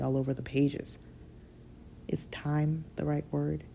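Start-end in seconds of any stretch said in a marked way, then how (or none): 2.1-3.6 slow, hushed deadpan whisper; dry aside, barely breathed; bone-dry deadpan, slowed down. Acted. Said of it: "Impressive deadpan".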